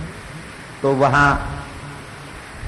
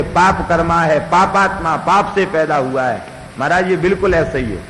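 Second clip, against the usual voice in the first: higher-pitched mild mock yell; half-shouted complaint, pitched up; retold shouting; 4 semitones higher than usual. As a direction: call out an insistent accusation, imitating a shouter. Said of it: "चिल्ला चिल्ला करके बोलने लगे".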